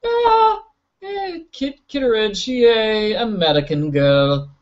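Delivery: high excited squeal mocking the character; high-pitched mock excitement. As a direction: squeal it up high like a giddy fan. Squeals imitating Bridget.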